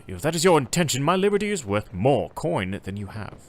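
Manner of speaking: firm proud refusal. Acted. Captain refusing to be bought.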